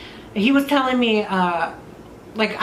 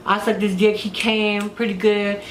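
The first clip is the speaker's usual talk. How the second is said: ordinary delivery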